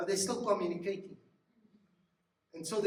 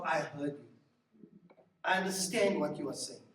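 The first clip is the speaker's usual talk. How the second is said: gentle acknowledgement; 4 semitones lower than usual. Shown as a demonstration. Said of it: "there's an acknowledgement of".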